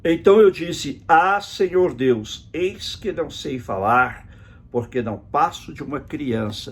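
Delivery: slow, deliberate Bible reading; scripture reading. Acted. Preacher reads the prophet's excuse to God, slow scripture reading. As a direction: read the verse out solemnly, word by word.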